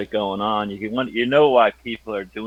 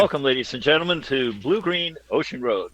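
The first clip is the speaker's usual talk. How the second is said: announcer intro. Shown as a demonstration. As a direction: welcome the audience like a host. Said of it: "a couple more".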